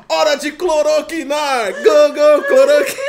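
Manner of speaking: hammed-up heroic chant; superhero battle cry. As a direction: Power Ranger style rallying cry. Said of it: "toma e fala".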